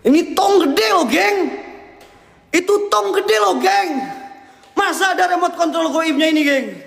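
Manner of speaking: high, incredulous exclaiming; alarmed insistence. Real, not acted. Ghost hunter telling viewers the big barrel shakes, high astonished protest.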